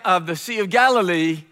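ordinary delivery

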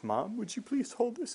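put-on high-pitched young woman asking her mom; imitating a girl's plea. Retold crying girl asking her mom.

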